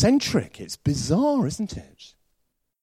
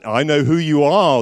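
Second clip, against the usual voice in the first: 1 eerie phone voice; 6 dB louder than usual. Retold or imitated. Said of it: "the voice said".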